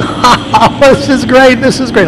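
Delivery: hammed-up laughing delight, very high; imitating a laughing guy. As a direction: mimic a guy cackling with delight. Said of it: "there's a guy laughing at it".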